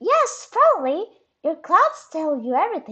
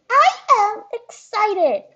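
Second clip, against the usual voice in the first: deadpan excitement; 9 semitones higher, 7 dB louder, slower than usual. Acted. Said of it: "You seem more excited than usual".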